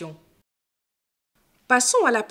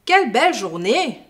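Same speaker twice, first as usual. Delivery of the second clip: exclamation ravie, plus forte; exclamation joyeuse; 2 semitones higher, 5 dB louder than usual. Shown as a demonstration. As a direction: lance la phrase avec joie. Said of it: "Le point d'exclamation". (exclamation joyeuse, plus forte)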